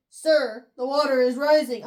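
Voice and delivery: loud warning cry; urgent alarm. Acted. Eli warning that the flood is rising, loud urgent call. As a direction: call it out hard over rising water.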